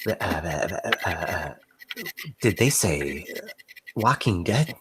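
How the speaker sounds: soft, stammering nervous little man; a skinny timid innkeeper, barely daring to ask; timid jumpy man. Acted. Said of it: "kinda jumpy, timid guy".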